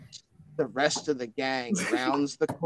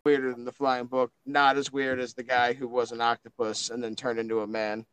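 Frank. Acted. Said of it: "Frank looks over and he's like".

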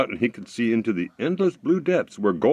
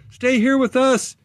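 high, slow, louder pleading; imploring creatures; 5 dB louder than usual. Acted. The underground creatures beg the fiddler to stay, slow high plea. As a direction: beg him to stay, drawn out. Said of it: "implored the creatures in a chorus".

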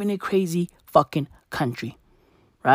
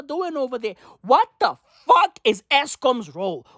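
exasperated shout; 9 semitones higher than usual. Real, not acted. Yelling at Eskom to pay its bills, exasperated shout. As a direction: bellow the order across the country.

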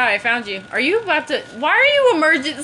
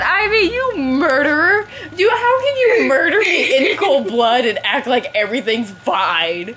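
indignant accusation. Real, not acted. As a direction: accuse your friend, raised and aggrieved. Accusing friend of killing them.

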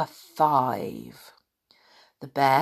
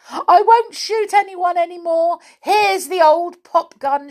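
high, loud distressed cry; hammed-up wail of giving in; Amelia Jane; 13 semitones higher, 7 dB louder than usual. A narrator's reading. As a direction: surrender in a storybook panic. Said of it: "she cried".

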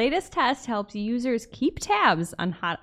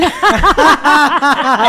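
loud laugh; 4 semitones higher, 12 dB louder than usual. Real, not acted. Laughing at kid story.

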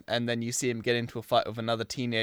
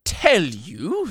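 White Witch; 7 semitones higher, 9 dB louder than usual. Acted. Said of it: "Then I'm the witch".

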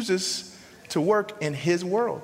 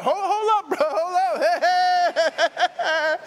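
panicked Moses backing out; 12 semitones higher, 4 dB louder, slower than usual. Acted. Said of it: "the amens all of a sudden stop".

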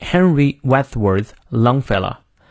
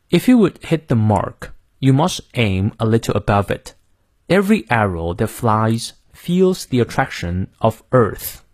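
American accent. Shown as a demonstration. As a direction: model reading in American English, r sounded in "mark" and "Earth". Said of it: "最后美式发音".

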